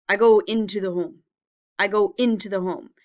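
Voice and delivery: words mashed together without pauses; run together, no pauses. Shown as a demonstration. Teacher showing a sentence read with no spaces. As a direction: read it all in one breath, no gaps. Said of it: "we have to read this sentence like this".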